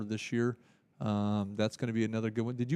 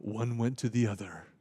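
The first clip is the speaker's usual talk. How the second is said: movie trailer voice; 3 semitones lower than usual. Pretend. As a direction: intone it like an epic movie trailer. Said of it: "that's my movie theater, uh, trailer voice".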